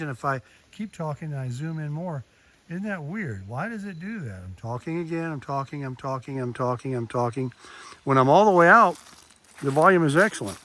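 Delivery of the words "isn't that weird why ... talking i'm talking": softer, distant, as if the mic pulled away; muffled zoomed-in audio. Shown as a demonstration. Hiker testing the zoom for viewers, muffled and distant. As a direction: talk on while the camera zooms in. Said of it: "did you hear how that changed?".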